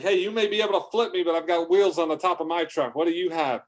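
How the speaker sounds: high, lively mock bragging; boastful taunt. Trucker boasting to the blob mid-race, high taunt.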